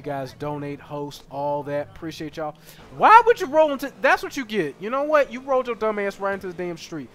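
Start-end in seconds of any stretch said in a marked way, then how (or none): 3.0-7.1 high, loud ribbing; a gamer roasting a clumsy pedestrian; mock scolding. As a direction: scold the character, half laughing. Scolding a game character.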